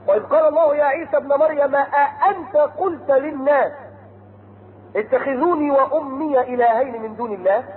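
slow chanted verse; Quran recitation. Acted. Preacher reciting Noah's words to his people, chanted. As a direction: intone it like a reciter.

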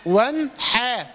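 ون، حا broken into two halves, slow; wrong split. Shown as a demonstration. Teacher demonstrating the error. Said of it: "مش ون".

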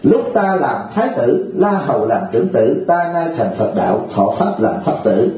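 slow, measured scripture reading; slow solemn recitation of a Buddhist verse. Acted.

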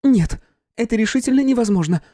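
high loud exclamation; exclaiming. A narrator's reading. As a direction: cry out in disbelief. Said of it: "воскликнула она наконец".

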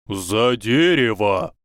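sharp, slow warning call; urgent shout. A narrator's reading. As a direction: bark it as a warning. Sudden danger warning.

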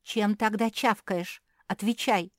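put-on older sister interrogating the chewing pug; demanding. A narrator's reading. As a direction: insist on a straight answer. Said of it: "потребовала старшая сестра".

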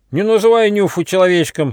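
high, loud indignant yell; angry shout. Acted. Ryzh shouts at the leader for insulting Nyufa, angry and high. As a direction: defend your friend, furious. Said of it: "сердито крикнул Рыж".

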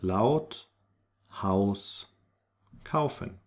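Laut, Haus, kaufen with an ow vowel; spaced repetition, Haus like English house. Shown as a demonstration. Teacher repeats AU examples, clear ow sound. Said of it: "au sound".

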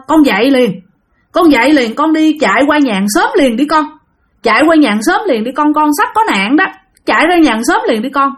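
mildly urgent wake-up warning. Acted. Dream stranger tells a child to run next door, urgent warning.

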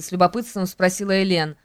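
ordinary delivery

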